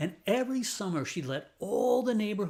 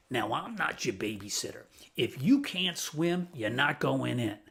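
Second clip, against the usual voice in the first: a hint of a tough old neighbor lady, a bit lower; lightly voiced stern pool lady laying down the law; mildly gruff no-nonsense warning; gravelly raspy voice; 4 semitones lower than usual. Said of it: "this gravelly, raspy voice".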